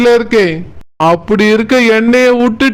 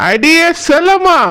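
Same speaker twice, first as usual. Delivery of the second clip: sing-song call across the house, stretching செல்லம்மா; 6 semitones higher than usual. Acted. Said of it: "இப்படி கூப்பிட்டுட்டு வராரு". (செல்லம்மா என்று நீட்டி கூப்பிடுதல்)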